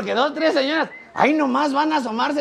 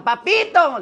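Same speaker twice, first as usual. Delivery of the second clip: mock fan squeal, higher-pitched; gritito de fans imitado; 6 semitones higher, 4 dB louder, much slower than usual. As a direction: imitate women calling out admiringly. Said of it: "me gritan". (imitando el grito de admiradoras)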